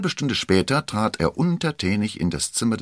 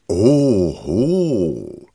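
amused laughing Oho, a bit louder; 4 dB louder than usual. Acted. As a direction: laugh it off scornfully. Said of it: "lachte der Fremde".

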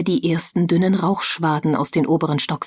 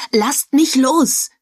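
high, slow, pleading cry; desperate cry; 8 semitones higher, 5 dB louder, much slower than usual. A narrator's reading. Joel struggles against Eric and Albert, high slow desperate cry. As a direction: drag out the words as you fight free. Held back, struggling to rescue.

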